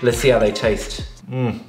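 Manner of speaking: chewing while tasting; talking through a mouthful; mouth full chewing. Real, not acted. Seen 1: Grimacing, lips pursed and working as if chewing just-tasted cheese.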